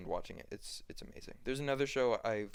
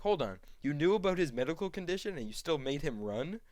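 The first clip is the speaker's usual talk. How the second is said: higher-pitched, incredulous accusation; mock accusing; 5 semitones higher, 4 dB louder than usual. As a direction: act out calling someone out, rising to a question. Acted accusation in retold argument.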